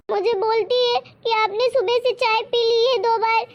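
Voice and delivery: an old woman playing the victim; complaining granny. (पोते से शिकायत करती दादी की ऊँची आवाज़)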